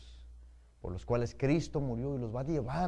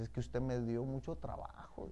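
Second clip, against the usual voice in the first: whispered confession; 4 semitones lower, 9 dB quieter than usual. Retold or imitated. Sister confesses quietly to pastor.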